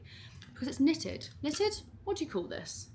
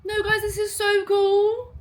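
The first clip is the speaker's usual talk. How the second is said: high, loud, slow and drawn out; thrilled squeal; 12 semitones higher, 8 dB louder, slower than usual. Real, not acted. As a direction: squeal it, nearly in tears. Overwhelmed unboxing.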